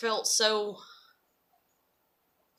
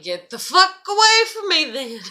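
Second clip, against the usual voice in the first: mock snapping; 8 semitones higher, 8 dB louder than usual. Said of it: "and I'm like".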